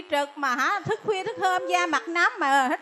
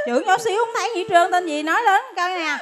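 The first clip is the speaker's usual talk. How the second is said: louder, higher, brusque nurse; impatient nurse; 4 semitones higher, 4 dB louder than usual. Acted. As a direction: snap at the patient to speak up. Nurse barking at patient.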